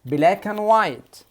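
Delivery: "Black and white" with and said as "an", no d; linked "black an white", drop the d; d dropped. Shown as a demonstration. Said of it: "قول معايا".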